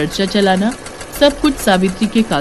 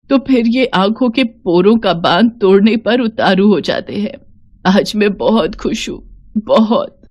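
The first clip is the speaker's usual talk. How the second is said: tearful joy. Acted. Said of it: "Savitri सीमा को पकड़कर इतना रोई".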